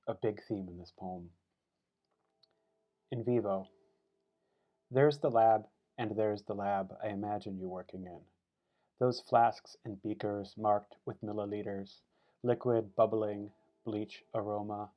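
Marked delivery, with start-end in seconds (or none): 3.1-14.9 deliberate recital, slow on short phrases; poetry reading. Acted. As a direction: set each image apart with a pause. Reads poem for his mother.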